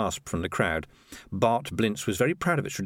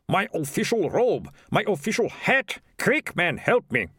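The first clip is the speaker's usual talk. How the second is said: flustered mayor; 9 semitones higher, slower than usual. Acted. Mayor rushing to dress for piper.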